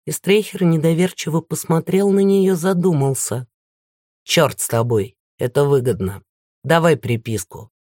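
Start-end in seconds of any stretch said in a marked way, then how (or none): 4.2-7.7 lower, menacing villain. Acted. Narrator voices the villain.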